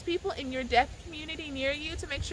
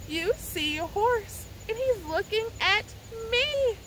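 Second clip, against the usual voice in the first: sing-song storytime; 6 semitones higher, slower than usual. Shown as a demonstration. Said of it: "The first animal is going to be horse".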